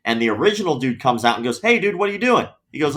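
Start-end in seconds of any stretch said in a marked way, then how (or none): 1.6-2.5 higher, confronting a rival, half-mocking; retold angry challenge. Salesman confronting a rival over a stolen sale, mock angry. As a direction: call out the other guy's move like a mild mock yell.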